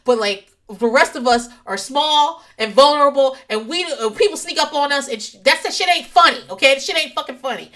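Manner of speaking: mock chew him out; a touch of a furious wife; scolding. Scolding husband after scare.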